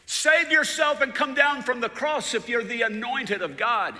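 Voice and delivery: high, loud mocking yell; high, loud jeer from the officials; taunting shout. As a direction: jeer it up at the cross. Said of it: "they were shouting".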